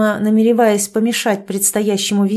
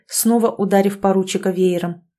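usual speaking voice

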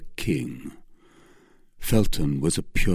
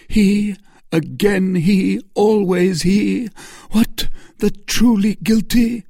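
high, louder accusation; accusing Milady; 13 semitones higher, 6 dB louder than usual. Acted. Milady accusing the duke before Felton. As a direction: hammer the word he.

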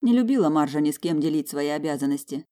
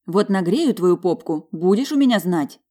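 louder, slow mock threat; exasperated; 3 semitones higher, 6 dB louder than usual. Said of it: "в сердцах сказала я".

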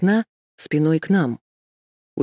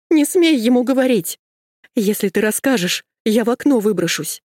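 hysterical threat; 6 semitones higher than usual. Acted. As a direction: shout it in panic.

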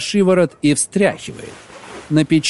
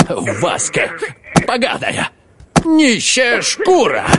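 shrieking abuse; 8 semitones higher, slower than usual. Acted. Husband screams at his wife in a rage. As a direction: screech the insults, dragging them out. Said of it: "громко визжит".

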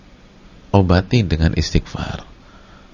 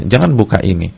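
husband forbidding wife; 4 dB louder, much faster than usual. Retold or imitated. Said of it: "seorang suami bilang ke istri".

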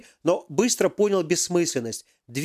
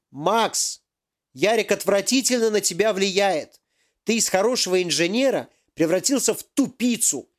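higher, hammed-up indignant professor; angry professor; 4 semitones higher than usual. Professor confronts Yaroslav over the missing device, indignant. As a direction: demand answers like a cheated boss.

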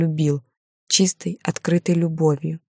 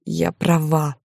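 moaning; slower than usual. Acted. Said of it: "простонала я".

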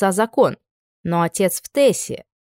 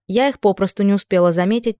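plain reading voice

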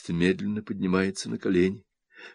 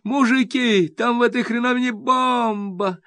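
panicked yell. A narrator's reading. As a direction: yell to the men in terror. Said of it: "орёт журналист Сахаревич".

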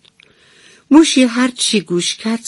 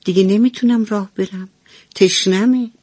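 whining little mouse; 3 semitones higher than usual. Acted. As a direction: whine like a tired little kid. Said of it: "شروع کرد به نق زدن".

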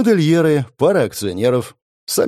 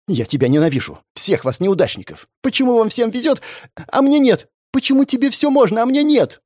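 bitter outburst; 8 semitones higher than usual. Acted.

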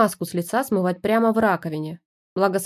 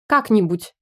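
barked; 5 dB louder than usual. Acted. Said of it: "рявкнул он".

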